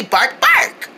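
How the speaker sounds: dog bark. Shown as a demonstration. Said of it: "Let's say bark noises like a dog".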